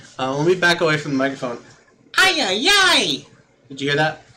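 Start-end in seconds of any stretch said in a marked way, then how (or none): 2.2-3.3 very high-pitched critter call voice. Backing away from the microphone so it won't peak, a high-pitched voice. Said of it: "how do I go high pitch without peaking".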